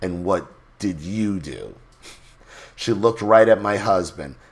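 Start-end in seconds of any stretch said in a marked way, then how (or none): 0.0-1.7 mock self-satisfied, superior, pointed smug delivery. Retelling what a woman asked before looking at her husband: imitating a smug tone. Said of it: "very smug like".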